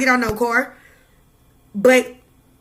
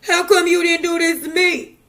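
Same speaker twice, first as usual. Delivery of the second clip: mock whiny complainer; 4 semitones higher than usual. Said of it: "if somebody say".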